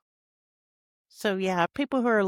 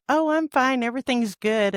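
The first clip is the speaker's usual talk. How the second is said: forced fine; 5 semitones higher than usual. Retold or imitated. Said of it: "she can tell me on the phone".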